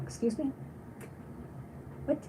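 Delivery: high, soft questioning lift; baffled reaction. Retold or imitated. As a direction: act out not catching what was said. Acting out not understanding an accent.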